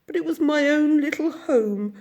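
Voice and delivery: high, loud, tearful outpouring; tearful rush of homesick grief; sobbing. A narrator's reading. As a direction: pour it out between sobs. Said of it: "he sobbed at last".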